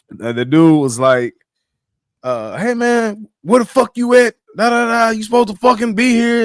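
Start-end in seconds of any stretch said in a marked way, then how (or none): 2.6-6.4 mock angry manager. Acting out the angry manager's call.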